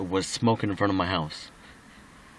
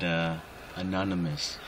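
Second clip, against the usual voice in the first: slurred speech; 3 semitones lower, 6 dB quieter than usual. Real, not acted. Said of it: "if I said that kinda slurry".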